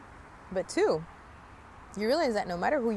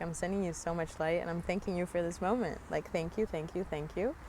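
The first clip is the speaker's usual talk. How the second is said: quiet, tender thank-yous fading softer; soft inner blessing; 5 dB quieter than usual. Retold or imitated. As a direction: gently bless the driver under your breath. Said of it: "in my head, I was like".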